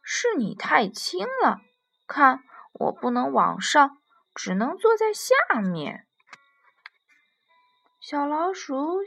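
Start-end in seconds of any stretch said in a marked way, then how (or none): 0.0-6.1 louder, swooping voice of an objecting giraffe; protesting giraffe. Acted. Giraffe answers the mouse who called it too heavy, protesting. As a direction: insist back as a storybook giraffe.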